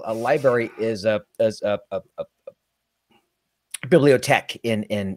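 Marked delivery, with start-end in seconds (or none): 2.2-4.8 "bibliothèque" said slowly in French; French pronunciation. Shown as a demonstration. French word pronounced.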